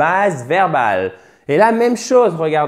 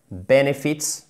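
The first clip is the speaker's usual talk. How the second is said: "benefits" stressed on "ben"; first-syllable stress; slower than usual. Shown as a demonstration. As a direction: hit the start of "benefits", lighter ending. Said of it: "accent tonique sur la première syllabe".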